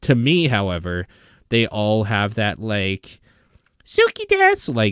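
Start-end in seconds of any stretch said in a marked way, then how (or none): 3.8-4.7 put-on very high, squeaky anime girl voice. Complaining that Japanese voice acting all sounds alike, high anime girl voice. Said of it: "sort of fucking high anime girl voice".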